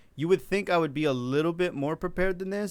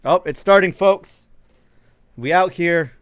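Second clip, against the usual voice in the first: excited; 4 semitones higher, 13 dB louder than usual. Real, not acted. Draft broadcast begins, hyped.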